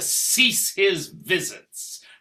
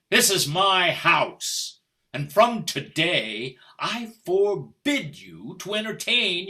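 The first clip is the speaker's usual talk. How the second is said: firm declaration; 3 dB louder than usual. Acted. Husband asserts control.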